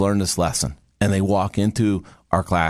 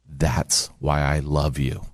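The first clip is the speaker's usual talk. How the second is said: slow, lower, heartfelt; tender declaration; 4 semitones lower, slower than usual. Retold or imitated. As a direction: say it slowly and low, as an old husband to his wife. Husband tells wife he loves her.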